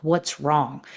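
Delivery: a low, soft, concerned "What's wrong?"; caring question. Shown as a demonstration. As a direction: ask "What's wrong?" quietly and gently. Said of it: "what would happen if I asked".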